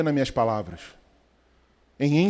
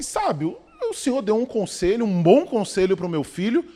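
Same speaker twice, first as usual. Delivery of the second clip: puzzled mother; 4 semitones higher than usual. Retold or imitated. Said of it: "ela virou pro sábio e falou".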